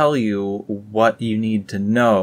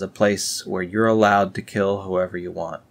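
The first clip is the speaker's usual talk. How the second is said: usual speaking voice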